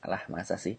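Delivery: knowing smile. Shown as a demonstration. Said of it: "terkesan berkata".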